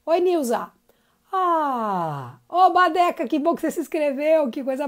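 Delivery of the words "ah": a descending chest-voice "Ah" slide; demo vocal sigh. Shown as a demonstration. Teacher shows students the chest voice sound. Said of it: "Vai fazer isso aqui, ó".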